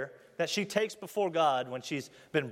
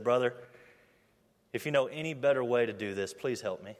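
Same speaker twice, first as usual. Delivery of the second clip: tearful plea; 5 semitones lower than usual. Retold or imitated. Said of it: "looked at me with big tears in his eyes".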